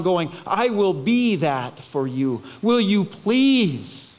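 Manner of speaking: earnest, fatherly plea; pleading. Acted. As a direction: implore your children to accept help. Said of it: "Can't you just hear Jesus pleading".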